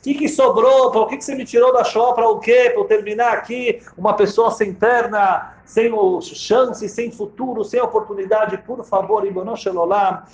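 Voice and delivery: tearful prayer. Acted. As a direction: cry out to God, a touch of tears. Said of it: "Ele começa a chorar".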